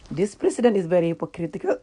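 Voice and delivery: held-in laugh breaking loose at the end; trying not to laugh. Real, not acted. Trying not to laugh at herself, suppressed giggles. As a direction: keep it straight, then burst out laughing. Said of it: "I'm gonna try not to laugh at myself".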